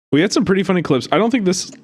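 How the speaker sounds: talking with the hiccups; words broken by hiccups. Real, not acted. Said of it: "I have the hiccups so bad".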